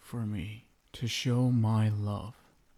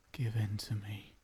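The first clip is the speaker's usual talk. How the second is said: soft voiceless whisper; 6 dB quieter than usual. Acted. Vampire husband whispering to his wife to give in to him. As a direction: whisper the plea right into her ear. Seductive plea to surrender.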